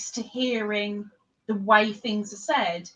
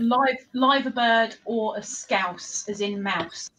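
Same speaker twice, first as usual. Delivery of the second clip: slow, careful dictionary delivery of "liver bird"; slow explaining; slower than usual. Shown as a demonstration. Teaching a friend local words, slow and careful. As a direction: spell out "liver bird or a Scouse" slowly.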